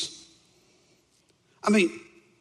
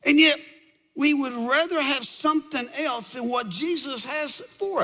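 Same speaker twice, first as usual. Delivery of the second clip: higher-pitched, impassioned sermon delivery; fervent preaching; 8 semitones higher than usual. Real, not acted. Preacher challenging people who seek others' approval, fervent preaching. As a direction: drive the point home to the congregation.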